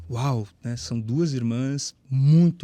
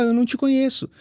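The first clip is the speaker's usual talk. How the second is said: Jesus rejecting; 9 semitones higher than usual. Retold or imitated. Jesus refusing the man at judgment, in a raised voice. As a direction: turn him away in a raised voice. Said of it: "Jesus vai olhar pra ele e vai falar".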